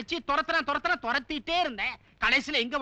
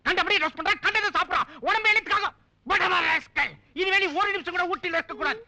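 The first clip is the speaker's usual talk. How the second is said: angry scolding; 2 semitones higher than usual. Acted. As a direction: tear into him like a strict military dad. Father berates son angrily. (கோபமான திட்டல்)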